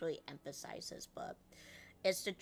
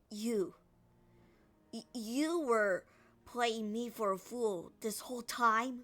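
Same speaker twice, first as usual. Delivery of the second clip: serious; 5 semitones higher, 5 dB louder than usual. Shown as a demonstration. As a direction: make it a dead-serious accusation. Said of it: "how serious I went".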